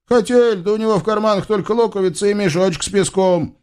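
высокий, быстрый голос оправдания; тараторь высоко, оправдываясь; тощий разбойник. Acted. (высокий торопливый голос разбойника)

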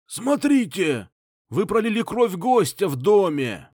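high, loud, hoarse rattling cry; hoarse old man's shout. A narrator's reading. Old patriarch shouting hoarsely at his son. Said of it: "кричать старик хриплым дребезжащим голосом".

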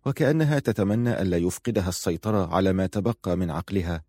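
usual speaking voice

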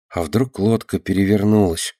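usual speaking voice

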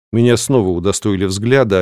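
usual speaking voice

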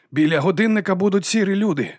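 high, loud call while running; shouted warning. A narrator's reading. Lobsang shouting to Susan as they run. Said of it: "крикнув він".

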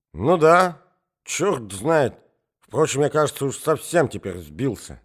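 put-on high, slow rambling old man; old prince storytelling. Old prince tells the ladies his anecdote, high and slow. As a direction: amble through the tale like a befuddled old prince.

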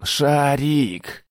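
high, drawn-out call for rescue; yelling. A narrator's reading. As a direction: wail the name out. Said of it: "заорал он". (протяжный крик)

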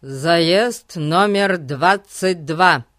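slow, drawn-out public address call; loudspeaker announcement. Acted. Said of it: "голос из репродуктора".

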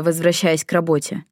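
plain reading voice

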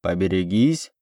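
резкий окрик издалека, из окна; крикни сверху, предупреждая прохожих; громкий окрик. A narrator's reading. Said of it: "послышалось громкое". (громкий окрик из окна)

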